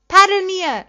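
high, loud team chant; shouted cheer. A narrator's reading. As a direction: yell the team name back in triumph. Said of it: "schrie Dad zurück".

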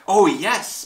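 high, loud little pipe; piping voice. A narrator's reading. Tiny mayor answers Horton, piping up. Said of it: "piped the voice".

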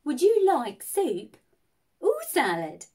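would you like soup, then or salad, with a pause between; patient waiter slowing down to clarify; slow, careful repeat. Retold or imitated. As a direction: spell out soup or salad slowly for her.

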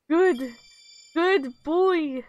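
high, loud praise for a puppy; delighted dog praise. Real, not acted.

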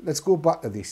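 normal talking voice

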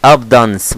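ABUNDANCE as two syllables, AB-dans; wrong pronunciation. Shown as a demonstration. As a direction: say "abundance" with the middle swallowed. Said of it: "لا والله العظيم".

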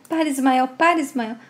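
lightly acted delirium, begging someone to stop; delirious pleading. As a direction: plead as if caught in a fever dream. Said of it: "Estela começa a delirar".

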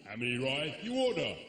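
mock Chinese-accented waiter; grunt, then order in a Chinese accent; hammed-up Chinese martial-arts accent; Jackie Chan. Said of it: "I want proper Jackie Chan".

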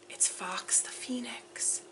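hushed, slow whisper; real awed hush. Real, not acted. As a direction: breathe the name in wonder. Awed at the gift.

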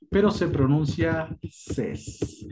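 "ses" said slowly with an open e; French seize. Shown as a demonstration. Teacher showing how seize sounds. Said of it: "Se escribe seis".

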